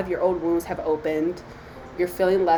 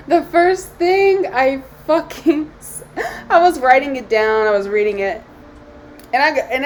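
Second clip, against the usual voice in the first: choking up; 6 semitones higher, 5 dB louder than usual. Real, not acted. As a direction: let the tears break through the words. Overcome while reading shadow book.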